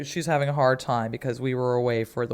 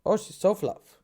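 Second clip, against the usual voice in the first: cooing over the cat; 4 semitones higher, 6 dB louder than usual. Real, not acted. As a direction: melt over how fluffy she is. Cooing about fluffy cat.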